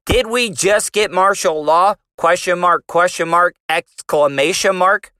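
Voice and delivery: lightly nerdy reading voice; a hint of a nerdy guy reading; white nerdy voice. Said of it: "read it in my white nerdy voice".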